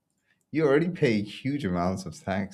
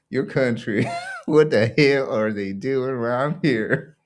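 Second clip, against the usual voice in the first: incredulous, laughing through the question; can barely ask it for laughing; real laughter breaking up the words; laughing disbelief; 3 semitones higher, 4 dB louder than usual. Real, not acted. Laughing at the Dutch tax news.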